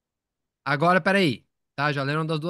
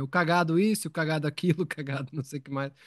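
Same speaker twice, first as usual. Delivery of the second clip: put-on child reading aloud; faster than usual. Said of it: "eu gostava de ler tudo em voz alta".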